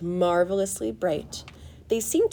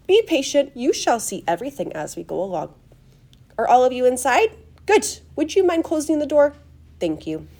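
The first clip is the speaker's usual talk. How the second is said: high, bright-pitched instructions settling at the end; loud, high, courteous showman; eccentric host, brisk; 6 semitones higher, 7 dB louder than usual. Acted. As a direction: marshal guests politely in a fluty voice. Story figure addresses his guests.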